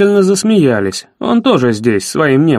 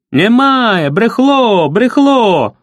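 crowd jeering; 6 semitones higher, much slower than usual. Acted. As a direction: shout them down as a mob. The crowd jeers.

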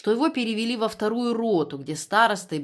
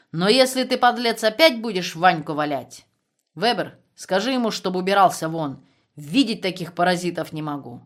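loud threatening scorn; angry; 4 dB louder than usual. Acted. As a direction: threaten with disgust. Commandant threatens prisoner. (гневная угроза)

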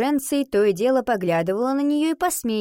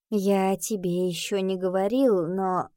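silly lovestruck voice. Acted. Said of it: "дурацким влюблённым голосом".

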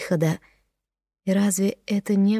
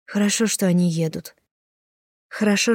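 plain reading voice

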